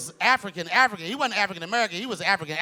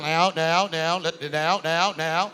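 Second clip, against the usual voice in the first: stuttering politician, lower pitch; Barack Obama; 4 semitones lower, slower than usual. Acted. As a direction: lightly mimic halting, repeated words. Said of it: "He's always stuttering".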